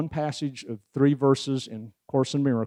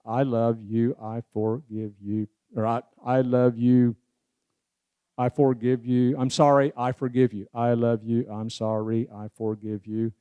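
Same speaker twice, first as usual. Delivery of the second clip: the phrases spoken as a steady rhythmic chant; rhythmic recital. Shown as a demonstration. Speaker breaking the phrases down rhythmically, steady beat. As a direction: keep the four phrases on a beat. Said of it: "break it down rhythmically".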